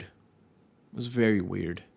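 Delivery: "It was very weird" said slowly, each word drawn out and weighed; slow down and lean on "very"; slow, deliberate repeat. Shown as a demonstration.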